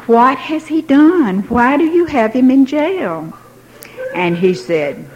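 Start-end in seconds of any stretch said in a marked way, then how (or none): 0.1-3.3 high, slow, sugary polite questions; butter him up so he keeps talking; sweetest voice. Retold or imitated. Wife on the phone to the jailer, sweetly slow. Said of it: "sweetest voice".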